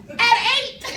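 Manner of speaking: delighted disbelief through a laugh; laughing amazement. Real, not acted.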